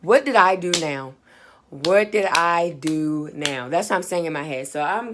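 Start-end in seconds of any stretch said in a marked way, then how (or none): 0.0-1.1 exasperated inner protest. Retold or imitated. Student summoned to the office thinks to herself, exasperated. Dreading a summons, in her head. 1.7-3.7 slow, word-by-word dismay; drawn-out inner protest. Retold or imitated. Student summoned to the office repeats the thought, slowly exasperated.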